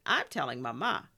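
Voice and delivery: loud tattletale threat; shouted. A narrator's reading. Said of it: "Elena shouted".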